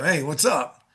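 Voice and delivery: careless, routine hello; casual throwaway phone greeting; offhand everyday greeting. Shown as a demonstration. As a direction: toss it off without any real care. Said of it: "like we normally do".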